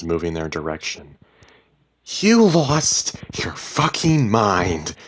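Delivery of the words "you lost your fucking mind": heated shouting match; furious accusation. A narrator's reading. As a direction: hurl the blame in anger. Wife yells accusations in quarrel.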